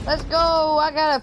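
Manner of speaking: loud happy shout of triumph; excited cheer. Real, not acted. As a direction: cheer it out like a win.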